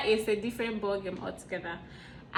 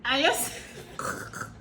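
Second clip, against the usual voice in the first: slow repeat; 5 semitones higher, slower than usual. Retold or imitated. Repeating Korean greeting.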